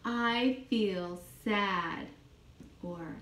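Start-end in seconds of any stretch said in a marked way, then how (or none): 0.0-2.1 slow, gentle mock-sad; modelled sadness. Shown as a demonstration. Teacher showing a child how sad sounds, slow. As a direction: drag it out slowly, a touch of sad.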